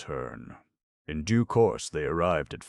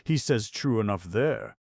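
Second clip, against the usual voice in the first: rushed, raised interjection; hasty; 6 semitones higher, 5 dB louder than usual. Acted. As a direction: hurry in to cut them off. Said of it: "coming hastily forward".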